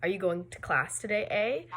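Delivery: "eh" lifted as a tag question. Shown as a demonstration. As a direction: ask it, turning up on the final "eh". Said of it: "used at the end of a question".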